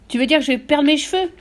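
high, loud aghast question; hurlement du mari. A narrator's reading. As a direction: yell it in disbelief. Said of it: "hurla le mari". (question hurlée, horrifiée)

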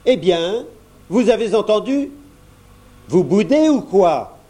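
mildly scolding mum; a mother losing patience at the table; cross mother. A narrator's reading. Mother scolds her sulking children, mildly cross. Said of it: "Leur maman se fâcha".

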